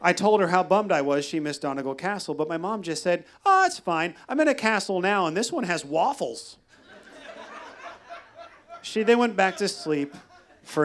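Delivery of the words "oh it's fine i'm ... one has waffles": cheery mom. Retold or imitated. Mom quoted, cheerful dismissal.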